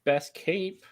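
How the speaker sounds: a hint of an eager gate guard, going along happily; lightly voiced friendly woman. Game master plays the blonde woman.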